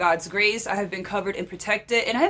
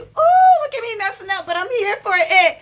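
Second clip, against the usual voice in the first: high laughing squeal at herself; 10 semitones higher, 7 dB louder than usual. Real, not acted. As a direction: giggle through a flub. Laughing at own mistake.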